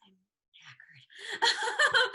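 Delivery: "knackered" said with a British accent; a tired, exaggerated Brummie "I'm knackered". Shown as a demonstration. Showing off her favourite British word, tired British accent. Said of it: "you're just like".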